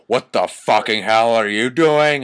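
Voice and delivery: half-hearted angry shout; mock angry shout. Reading the fanfic line aloud, a mock angry shout. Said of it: "I shouted angrily".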